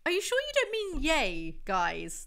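high mocking yay. Teasing Jack about his cheer, high mocking pitch.

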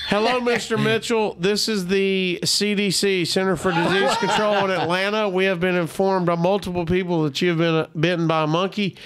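lightly voiced formal agency official; measured, formal voicemail delivery; official caller. CDC official warning bitten man by voicemail, mildly formal.

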